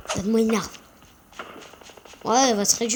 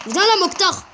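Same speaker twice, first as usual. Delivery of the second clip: calling out; 7 semitones higher than usual. Real, not acted. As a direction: call him out. Calling out to an enemy.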